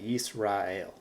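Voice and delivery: Yisrael said as yees-rah-EL; three joined syllables in Yisrael, yees-rah-el; Hebrew pronunciation. Shown as a demonstration. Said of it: "you would actually pronounce it like that".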